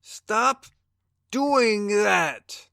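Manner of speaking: high, loud protest; a furious shouted demand; angry shout. Acted. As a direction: yell at him to quit it. Being attacked, demands it stop.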